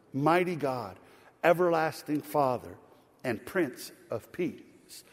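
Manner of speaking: measured, proclaiming verse by verse; scripture reading. Acted. Preacher reads Christmas prophecy to congregation, proclaiming. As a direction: proclaim it with deliberate pauses.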